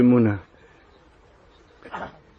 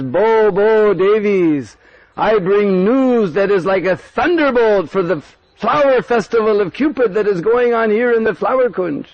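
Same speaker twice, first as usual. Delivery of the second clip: higher, urgent messenger voice; urgent warning; 6 semitones higher than usual. Acted. Tulsi warning the gopis of Kutila, urgent. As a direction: rush in with bad news. Tulsi Manjari brings alarm.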